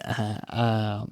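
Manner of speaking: stuck on uh, stuttering; real stutter, can't get it out. Real, not acted. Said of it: "whoa, I'm stuttering".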